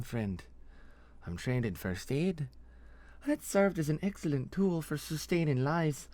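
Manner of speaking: put-on accented, pointed threat; Nesrathi interrogator, menacing. Interrogator promising to keep her victim alive, menacing. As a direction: explain the threat with cool relish.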